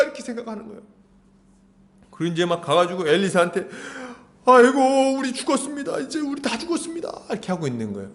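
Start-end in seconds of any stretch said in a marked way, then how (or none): 4.4-7.1 panicked lament. Acted. Servant runs to Elisha, high panicked wail. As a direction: wail that all is lost, voice trailing.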